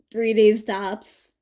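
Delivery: laughing, slow teasing. Acted. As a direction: chuckle out the words.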